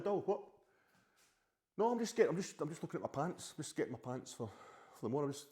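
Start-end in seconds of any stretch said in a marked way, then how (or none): 0.0-0.4 calling out. Real, not acted. Called away by off-screen partner. 1.8-3.5 calling back. Real, not acted. Answering partner off-camera.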